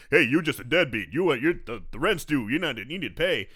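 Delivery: loud mock landlord demanding rent; sassy old landlord. Landlord hassling a tenant over rent, loud and sassy. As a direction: lay into the tenant with loud sass. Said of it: "some sassy old black guy".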